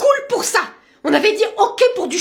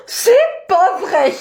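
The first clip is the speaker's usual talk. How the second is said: shocked gasp; 4 semitones higher, much slower than usual. Acted. Mother shocked by daughter's hair.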